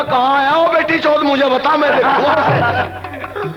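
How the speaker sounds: hammed-up challenge, last word dragged out; mock threat. Son with a stick hunts his father, mock threat. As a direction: call him out, playing at fury.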